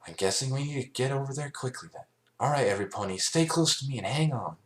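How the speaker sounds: rally the group; commanding Twilight. A narrator's reading. Twilight telling everypony to hold on, firm.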